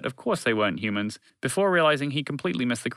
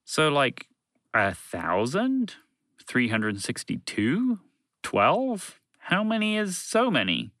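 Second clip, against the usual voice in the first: slow guesses climbing to a high question; drawn-out, questioning persistence; persisting; 5 semitones higher, much slower than usual. Acted. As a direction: keep pressing, guess by guess. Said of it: "Fred persisted".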